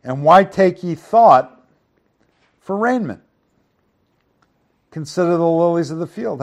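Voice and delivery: projected Bible reading, loud on the openings; emphatic reading, easing at verse ends; scripture reading. Acted. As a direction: read the verses aloud with preacherly weight. Reads scripture aloud.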